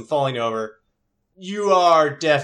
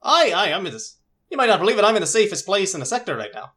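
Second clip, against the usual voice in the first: excited brother voice; 6 semitones higher, faster than usual. Acted. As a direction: brag about being safe. Brother on radio.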